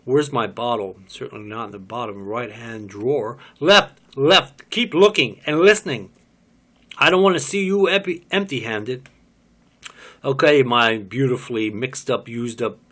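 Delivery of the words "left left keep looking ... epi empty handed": high loud barked directions; shouting. Acted. Woman yelling at man hunting the bottle, loud shouted orders. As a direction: yell orders across the room.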